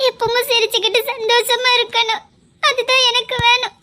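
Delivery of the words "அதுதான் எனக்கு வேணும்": crying as she says it; tearful plea. Acted. Rohini crying as she wishes Vikram happiness. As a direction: let the tears break through.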